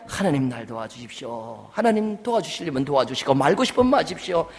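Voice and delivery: lukewarm, going-through-the-motions prayer; limp half-hearted prayer. Shown as a demonstration. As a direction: pray as if you don't care either way. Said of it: "이게 아닙니다".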